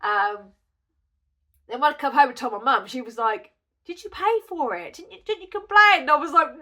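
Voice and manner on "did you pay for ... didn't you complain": retold indignant questioning. Mum's indignant reaction, retold.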